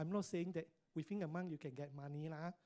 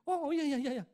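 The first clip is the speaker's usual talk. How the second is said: high, loud burst of eager yeahs; excited yeah yeah; 8 semitones higher, 10 dB louder, faster than usual. Retold or imitated. Old friend on the phone, excited to reconnect, high eager burst. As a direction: play the friend suddenly thrilled to hear from him.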